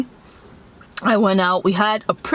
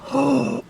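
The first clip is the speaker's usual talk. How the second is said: mock gasp; 6 semitones higher than usual. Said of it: "their friends were like".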